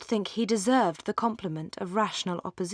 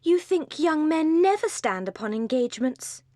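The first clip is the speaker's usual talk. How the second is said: lightly raised, teasing cry; a mild pointed jab, voice lifted higher; Lucy needles Marianne, a touch higher; cried out; 7 semitones higher than usual. Acted. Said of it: "cried Lucy".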